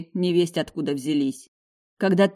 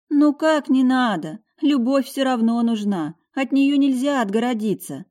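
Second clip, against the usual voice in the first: insistent mother; 8 semitones higher, 5 dB louder than usual. A narrator's reading. Mother insisting love is needed, higher insistent voice.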